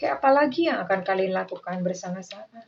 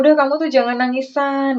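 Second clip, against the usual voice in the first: comforting partner; 5 semitones higher, 6 dB louder than usual. Retold or imitated. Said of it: "dia tuh suka ngomong".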